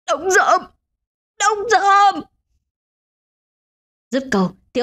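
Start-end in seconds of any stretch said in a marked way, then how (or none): 0.1-0.6 dying man's cry. A narrator's reading. Dying man cries out to his friend, first call. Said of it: "Ông Doãn gào lên". 1.4-2.2 even higher, harder repeat of the name; the last and most desperate call; desperate final cry. A narrator's reading. Dying man calls his friend once more, higher. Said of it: "Ông Doãn gào lên".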